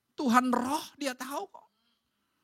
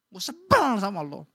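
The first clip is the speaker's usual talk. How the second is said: mild mock outburst at a husband; playfully exaggerated annoyance; acted annoyed wife; 2 semitones lower, 4 dB louder than usual. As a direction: vent irritation as a fed-up wife. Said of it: "kesel sama suami, ngomong".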